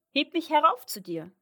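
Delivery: high, loud demand; calling out. A narrator's reading. Frog on the floor to the princess, calling out to be lifted. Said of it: "rief der Frosch".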